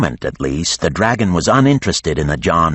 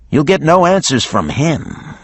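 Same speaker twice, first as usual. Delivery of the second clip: higher brisk woman's voice; lightly voiced warrior woman; Geneva voiced; 10 semitones higher than usual. A narrator's reading. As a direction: Geneva speaks up for Carlotti. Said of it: "said Geneva".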